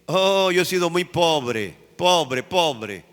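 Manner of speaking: lightly mocking a self-pitying voice; whiny complaint. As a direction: imitate a complainer moaning about being poor. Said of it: "la gente cuando dice".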